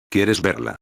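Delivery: lightly suggestive tease. Acted. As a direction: dangle it in front of him. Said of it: "con un tono sugerente".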